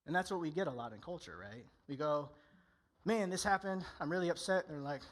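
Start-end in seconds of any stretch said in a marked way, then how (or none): 3.0-4.6 higher and louder, a retold burst of frustration; mock upset venting. Venting to a friend who wants to fix things, mock upset. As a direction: act out blowing off steam, lightly hammed.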